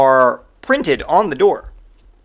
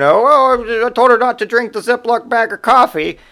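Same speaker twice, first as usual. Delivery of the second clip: high, put-on voice of a panicky customer; imitated frantic customer; 9 semitones higher, 4 dB louder than usual. Narrator imitates the frantic coffee customer, high and put-on. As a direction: squeal it like the frantic coffee lady.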